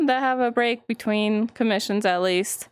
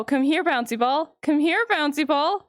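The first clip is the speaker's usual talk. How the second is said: gentle coaxing call, slightly higher; 4 semitones higher than usual. Real, not acted. Streamer coaxing a bouncy ball on screen, gentle call. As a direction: call it like a pet.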